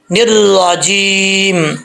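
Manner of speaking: الرجیم drawn out slowly and full-mouthed; full-mouth recitation. Shown as a demonstration. Teacher modelling الرجیم with heavy letters. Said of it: "full mouth پڑھنا ہے".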